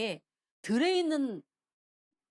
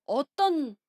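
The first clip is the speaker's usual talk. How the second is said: David's attention-seeking clamour; 7 semitones higher, 3 dB louder than usual. Retold or imitated. David making a commotion for the king to notice, clamouring. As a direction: call out so the whole camp hears. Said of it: "이러면서 막 소란을 피우는 거예요".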